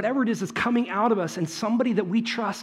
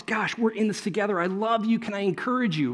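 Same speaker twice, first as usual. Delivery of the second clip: comforting; 3 semitones higher than usual. Retold or imitated. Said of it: "in comfort just goes".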